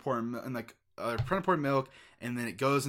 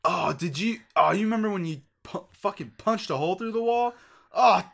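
infomercial voice; 8 semitones higher, 8 dB louder than usual. Pretend. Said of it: "It's like".

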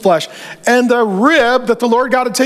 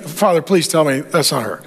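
lower, softer begging son; pleading Adam; 8 semitones lower, 3 dB quieter than usual. Acted. Adam begging God the animal isn't his wife, pleading. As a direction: plead with Father like a worried son.

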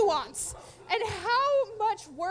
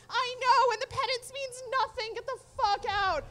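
retold angry dismissal; 6 semitones higher, 3 dB louder than usual. Retold quarrel amid cat attack.

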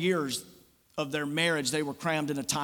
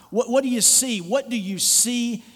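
raised, insistent question; emphatic call; 6 semitones higher, 5 dB louder than usual. Real, not acted. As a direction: call it out to the room. Preacher calls out question.

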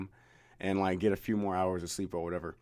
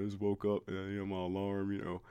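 much softer, trailing, mumbled excuse; sheepish mumble; 10 dB quieter than usual. Retold or imitated. Excusing himself to the manager on the phone, soft sheepish mumble. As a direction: barely get the excuse out, embarrassed. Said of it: "That's exactly how it sounded".

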